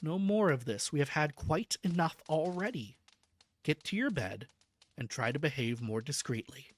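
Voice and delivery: low, firm and quiet; stern. Acted. Doctor ordering the patient to bed, stern and low. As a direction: settle him down with authority. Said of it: "I said sternly".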